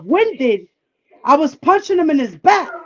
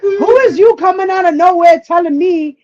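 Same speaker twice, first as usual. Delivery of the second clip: higher-pitched indignant challenge, re-enacted; indignant retort; 5 semitones higher, 4 dB louder than usual. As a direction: replay telling off someone who butted in. Acted retort in an argument.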